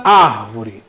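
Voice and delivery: árvore with a long, strong AR; stressed first syllable. Shown as a demonstration. Teacher asks class for tonic syllable, AR stressed.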